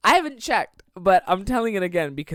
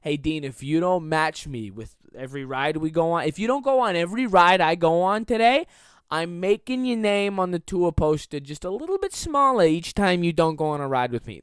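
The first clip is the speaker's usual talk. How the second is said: mock diva voice; 4 dB louder than usual. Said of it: "I just started doing this voice".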